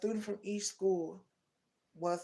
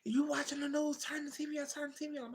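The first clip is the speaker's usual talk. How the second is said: high, pleading, tearful; imitating a panicked crying cousin; 8 semitones higher, faster than usual. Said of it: "she was crying".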